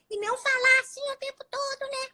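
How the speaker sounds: fast squeaky high-pitched demo voice; too high. Shown as a demonstration. Teacher to audience, demonstrating unbalanced pitch, much too high. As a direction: show the sharp end of the pitch range. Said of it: "maneira equilibrada de aumento do grave e agudo".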